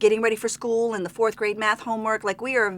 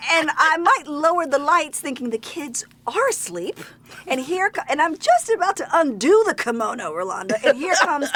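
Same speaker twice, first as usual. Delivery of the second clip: playful build; 6 semitones higher, 3 dB louder than usual. Real, not acted. Acting out romantic scene.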